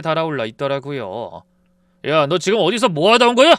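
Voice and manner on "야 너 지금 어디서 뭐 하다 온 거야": loud angry yell at his wife; husband shouting at his wife. Retold or imitated. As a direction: bark it at her, loud. Husband barges in yelling.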